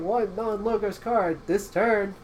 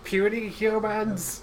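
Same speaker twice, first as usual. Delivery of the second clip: villain voice; 5 semitones higher, much slower than usual. Acted. Villain line in game.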